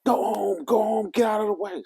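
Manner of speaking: high, loud mocking girl shout; loud, high mimic of an angry girl; imitated yell. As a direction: holler it like a furious kid. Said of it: "She's yelling".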